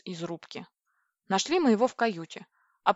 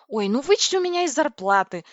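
higher, louder huffy comeback; sulky, raised-pitch backtalk; snappish retort; 6 semitones higher, 6 dB louder than usual. A narrator's reading. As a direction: snap back, offended and defiant. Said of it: "огрызнулась я и обиженно засопела".

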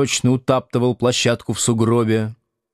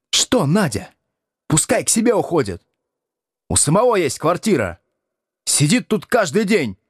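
high furious tirade, rising higher; shouting in fury; 12 semitones higher than usual. Acted. Надя кричит на мужа о надоевшем госте, яростно и высоко. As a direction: scream it all out at him. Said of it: "крикнула Надя".

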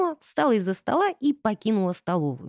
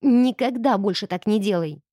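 sharp; 3 dB louder than usual. Acted. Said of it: "я резко сказала".

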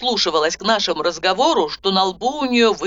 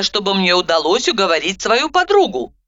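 ordinary delivery, nothing marked

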